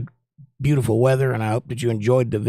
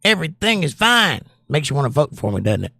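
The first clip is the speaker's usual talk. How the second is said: mock Clinton reassurance. Shown as a demonstration. Host jokingly reassuring chat like a politician. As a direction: sell it like a campaigning politician. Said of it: "I learned that from Bill Clinton".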